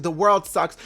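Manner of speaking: mock whining. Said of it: "sitting there whining all day".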